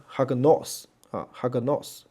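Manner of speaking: "哈个nos" opening on an audible "ha"; sounded h. Shown as a demonstration. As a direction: slowly demonstrate "哈个nos" with the h pronounced. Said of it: "就是变成哈". (“哈个nos”开头读成“哈”)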